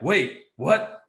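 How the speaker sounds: high, loud mock panic; imitating freaking out. Friend startled mid-massage behind the curtain, mock freak-out. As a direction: act out rising alarm, voice jumping up. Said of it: "he's, like, freaking out".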